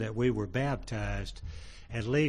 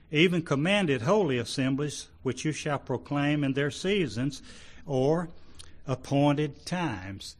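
higher, measured verse reading; declaimed Bible-reading voice; scripture reading; 3 semitones higher than usual. Acted. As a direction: read the verse out with emphasis. Reads scripture aloud to congregation.

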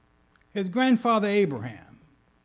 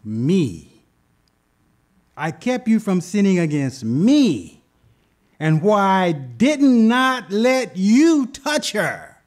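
God's voice; 4 dB louder, slower than usual. Acted. God answers Abimelech.

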